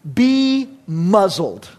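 drawn-out, deliberate order; slow command. Acted. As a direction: spell out the command slowly. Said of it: "look at it and say".

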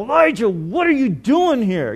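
mock scolding question; a touch of accusing exasperation; angry. Shown as a demonstration. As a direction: ask it like a reprimand. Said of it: "that's not the tone".

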